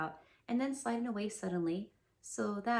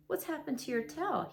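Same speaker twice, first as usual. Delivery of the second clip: surprised Pooh; 5 semitones higher than usual. Acted. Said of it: "he said in surprise".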